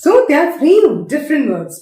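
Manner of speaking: stretched out for emphasis; very slow. Shown as a demonstration. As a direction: drag each word out.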